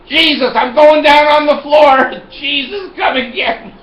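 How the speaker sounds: very high, loud comic cry to heaven; mock collapse, crying out to be taken; hammed-up wailing. Customer acting floored by the pill price, hammed-up wail.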